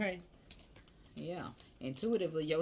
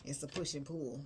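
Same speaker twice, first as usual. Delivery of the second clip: whisper; 4 dB quieter than usual. Real, not acted. Emotional moment in tarot reading.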